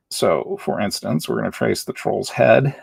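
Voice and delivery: talking while holding breath; words squeezed out on held breath. Real, not acted. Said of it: "Sorry, I'm holding my breath".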